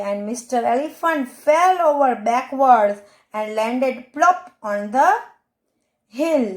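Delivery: put-on slow, careful read-aloud for children; slow reading to a class of kids; slow storybook reading. A narrator's reading. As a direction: read each word out clearly and slowly for young pupils. Teacher reads English story aloud.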